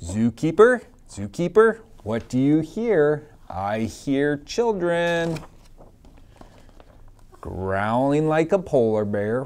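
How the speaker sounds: lively sing-song picture-book reading; reading to children. Acted. Teacher reading a picture book to her class, sing-song. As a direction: read it out to a class of little kids.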